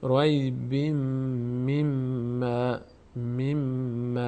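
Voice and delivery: slow word-by-word tajweed demonstration; measured, drawn-out teaching recitation; Quran recitation. Shown as a demonstration. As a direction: hold the doubled m with a nasal hum.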